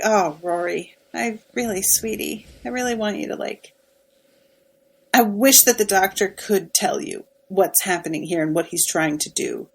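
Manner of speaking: soft, gentle words to a sad friend; tender consoling. Pretend. Fan softly consoling Rory over being ignored, tender. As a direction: hush it down like comforting a hurting friend.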